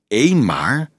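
mildly surprised question; a touch of puzzled surprise. Acted. Dolf wonders at a lone rider, mild surprise. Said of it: "dacht Dolf verbaasd".

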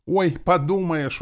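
very high, loud, drawn-out scoff; dismissive exclamation. A narrator's reading. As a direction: exclaim it slowly, brushing him off. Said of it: "воскликнула она".

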